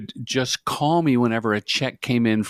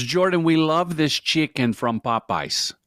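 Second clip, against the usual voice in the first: a hint of a Russian accent, lightly done; half-hearted Russian bookkeeper impression; 5 semitones higher than usual. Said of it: "I don't do the accents, clearly".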